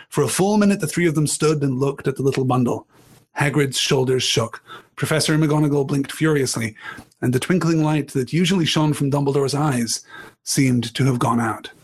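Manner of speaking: measured read-aloud narration; story narration. A narrator's reading. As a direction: read the scene to the class. Reading the novel aloud.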